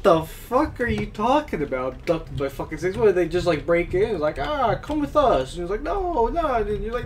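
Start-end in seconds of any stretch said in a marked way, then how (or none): 4.4-5.5 a slow, higher hammed-up kidnapper snake; mock snake kidnapper. 5.8-6.5 much higher, whiny mock protest; mock pleading victim. Mimicking the abducted victim.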